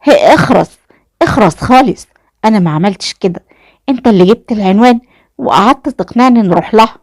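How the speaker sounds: mother's scolding, narrated yell. A narrator's reading. Mother blaming her son for the plan, yelling. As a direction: shut him up with sharp pitch jumps. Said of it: "اتكلمت والدته وقالت بزعيق".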